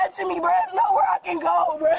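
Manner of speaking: gasping, panicked hyperventilating breaths. Real, not acted. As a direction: speak between hyperventilating gasps. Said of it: "I'm hyperventilating".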